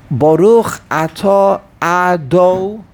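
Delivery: slow, syllable by syllable, leaving "Ado" hanging; accent placed late. Shown as a demonstration. Teacher showing where emphasis goes, slow broken-off "Ado". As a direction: draw out "Atah" and "Ado", stopping unfinished. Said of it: "you put the emphasis on the Nun".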